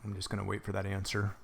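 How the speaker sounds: sipping a drink between words; slurping into mic. Real, not acted. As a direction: slurp a hot drink while talking. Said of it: "Sorry if I'm slurping into the, the microphone".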